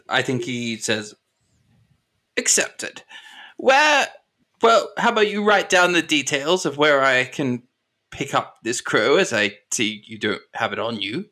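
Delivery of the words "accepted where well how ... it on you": businesslike colonel. Acted. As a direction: accept the deal as the colonel, pitch easing down. Game master voices Colonel agreeing.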